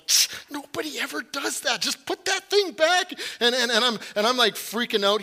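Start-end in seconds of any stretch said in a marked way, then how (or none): 0.1-3.1 mock scolding. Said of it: "she's like".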